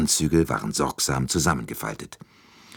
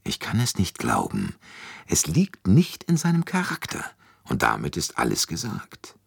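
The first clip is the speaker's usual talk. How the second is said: grumbling; 2 semitones higher than usual. Acted. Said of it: "brummte Poirot".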